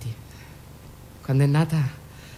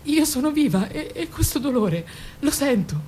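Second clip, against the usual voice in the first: intense outpouring; 9 semitones higher, slower than usual. Acted. Mother speaking of pain.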